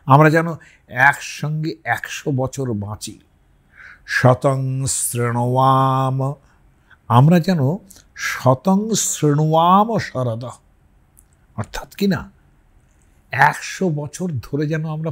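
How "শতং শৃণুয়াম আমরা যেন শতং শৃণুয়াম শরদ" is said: slow Sanskrit chant; mantra recitation. Shown as a demonstration. Teacher chanting a Vedic blessing, slow and measured. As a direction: intone the verse slowly.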